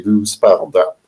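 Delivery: "Du sparadrap" said the French way, lightly; French accent. Shown as a demonstration. Guest repeating his favorite French word, in a light French accent. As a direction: let "Du sparadrap" roll off the tongue in French. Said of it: "it rolls off the tongue very, very nicely".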